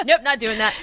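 laughing through a mock refusal; amused, laughing nope. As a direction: giggle out the no. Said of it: "I was like".

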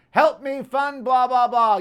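mocking, drawn-out fundraising appeal; slow, dismissive mock pitch; mock plea. Mimicking a politician's fundraising plea.

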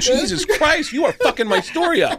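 high, loud mock outrage; exasperated outburst. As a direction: yell the correction in comic exasperation. Acts his outraged correction of Lars.

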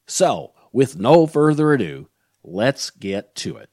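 scripted welcome with emphatic key words; podcast host intro. Acted. Host welcomes listeners and previews the guest, podcast host intro. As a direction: present the episode in deliberate, swinging phrases.

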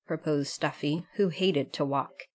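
ordinary delivery, nothing marked

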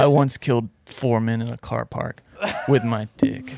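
deadpan macho boast; understated tough guy stating his feats; manly man. Pretend. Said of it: "the guy that you're doing right now is so manly".

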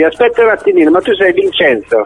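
rising high in sudden recognition; catching on to the caller; surprised recognition. Real, not acted.

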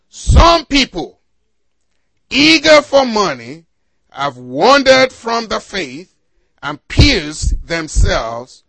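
deliberate preacher's Bible reading; scripture reading. Acted. Preacher reading First Timothy to the congregation, deliberate and emphatic. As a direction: read the verse out in measured, weighted phrases.

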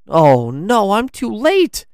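high-pitched alarmed gasp; gasping dismay. A narrator's reading. Lance finds the door open, gasping in dismay. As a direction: cry out in sudden dismay. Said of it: "he gasped".

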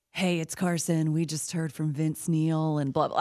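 slow, low sultry DJ read; sexy rock chick voice. Shown as a demonstration. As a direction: purr it like a rock radio babe. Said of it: "what was the sexy rock chick voice".

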